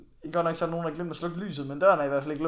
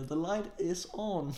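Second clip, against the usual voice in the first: slow, drawn-out imitation of the host; lightly mimicked host; quoting the host; 3 semitones higher, 4 dB quieter, much slower than usual. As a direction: say it slow and flat, like the host telling them off. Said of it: "det sidste, jeg lige har kommunikeret med ham".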